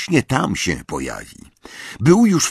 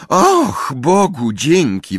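sigh of relief; 8 semitones higher, 4 dB louder, slower than usual. A narrator's reading. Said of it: "westchnęła z ulgą Hermiona".

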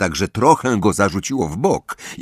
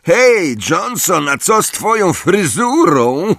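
high, louder taunting call; jeering shriek; 10 semitones higher, 3 dB louder, slower than usual. A narrator's reading. Parkinson heckling Johnson from below, shrieked high. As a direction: yell a mocking question up from below. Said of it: "wrzasnęła z dołu pensji Parkinson".

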